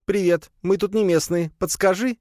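put-on high, friendly spider girl; squeaky spider greeting a stranger. (высокий дружелюбный голосок)

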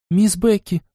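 high, happy call; joyful. A narrator's reading. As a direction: answer with sudden joy. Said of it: "уже радостно отозвалась Лайза". (радостно)

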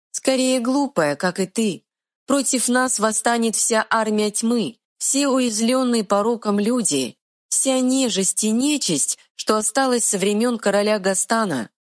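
high, quick fairy voice; tiny fairy retort. Acted. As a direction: snap back like a tiny fairy. Fairy speaks.

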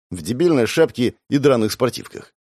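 ordinary talk, nothing marked

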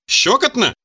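put-on high, girlish exclamation; ticklish squeal. A narrator's reading. Lady calling out to the experimenters as the suckers tickle, squealing. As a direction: let out a mild ticklish squeal, pitched well up. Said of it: "отозвалась приглушённым визгом и девическим хихиканьем".

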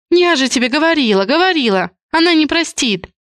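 high despairing cry. A narrator's reading. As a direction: shout it at her mother through tears. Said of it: "Крик Софьи".

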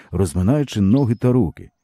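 ordinary delivery

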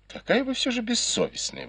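high teasing cry of mock outrage; playful exclamation. Maid teasing her mistress, a mock-outraged high exclamation. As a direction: exclaim Какая вы всё же бессовестная high and bright. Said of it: "воскликнула Юань Ян".

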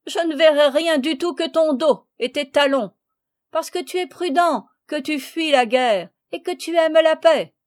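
playful mockery, brightened by acted mirth; laughing. A narrator's reading. Marguerite teasing Léon about his flight, laughing.

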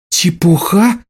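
Чепуха? rising in furious disbelief; enraged. A narrator's reading. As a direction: echo his word back, livid. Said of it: "рассвирепела она".

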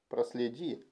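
a narrator's soft stage whisper. A narrator's reading. King confiding a private request to his officer, whispered. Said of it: "прошептал король".

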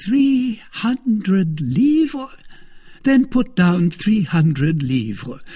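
a slow, resigned sigh over the cost. Acted. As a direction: give in with a sigh. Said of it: "with a sigh".

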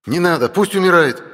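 angry bark. A narrator's reading. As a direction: bark it at her in anger. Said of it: "рявкнул Кайл".

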